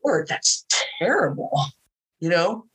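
chuckling, shaking it off; a laugh still in the voice; laughing disbelief. Real, not acted.

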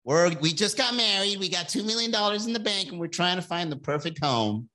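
lightly voiced happy newlyweds; a hint of a smug couple pitch; HGTV couple. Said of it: "It's the same".

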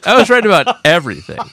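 high, gleeful vindication. Real, not acted. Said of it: "additional half octave your voice goes up".

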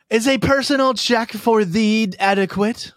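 high mock-medieval accent; hammed-up olde English accent, pitched well up; bad accent. Medieval diner offering payment in a bad accent. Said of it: "you have to speak in a bad accent".

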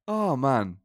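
a hint of a German pundit; lightly voiced football pundit; Didi Hamann impression. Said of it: "That's a really good Didi Hamann".

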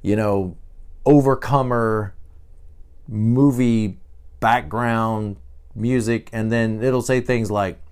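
usual speaking voice

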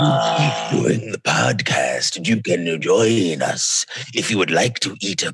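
hammy eerie announcer; bad spooky impression. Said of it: "That's terrible impression".

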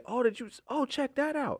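high delighted gasp of surprise; amazed. Retold or imitated. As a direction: sound pleasantly startled. Imitating an amazed listener.

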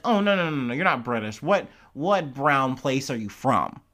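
imitating a pushy interrogator; mock aggressive prying. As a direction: cut in with mock dismissal, then press the question. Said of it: "aggressively pry".

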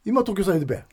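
role-played Akita dialect reply. Classmate saying where he lives, Akita dialect. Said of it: "ちょっと秋田弁で話してみたい".

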